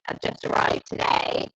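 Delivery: glitchy robotic call audio; distorted robot sound from bad connection. Real, not acted. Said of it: "everyone's saying you sound like an alien".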